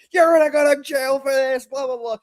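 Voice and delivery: put-on high, loud old woman yelling; shrill abuela scolding. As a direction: scold like an angry grandma. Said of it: "She's like".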